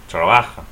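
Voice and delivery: "trabaja" as tra-BA-ha; Spanish "trabaja", middle syllable stressed; stress next-to-last syllable. Shown as a demonstration. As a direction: punch "ba" in "trabaja". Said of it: "stress the next to last syllable".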